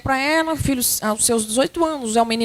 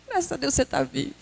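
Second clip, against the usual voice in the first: crying relief; 7 dB quieter, faster than usual. Acted. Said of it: "E chora".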